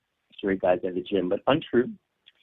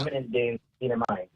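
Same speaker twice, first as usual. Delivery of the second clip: over an electric razor; faster than usual. Real, not acted. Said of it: "this sounds like a long-distance call".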